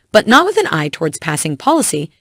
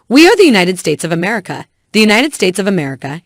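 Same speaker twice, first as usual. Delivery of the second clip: a touch of extra weight on "United"; stress on United. A narrator's reading. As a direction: lean lightly on "United" in the quoted line. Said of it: "stressing the word united".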